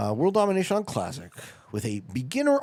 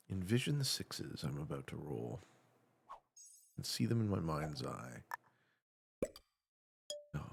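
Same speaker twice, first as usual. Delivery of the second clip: very low, soft dice-roll mantra; hushed incantation; 9 semitones lower, 12 dB quieter than usual. Pretend. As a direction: murmur it low, willing the dice to land. Chanting focus before dice rolls.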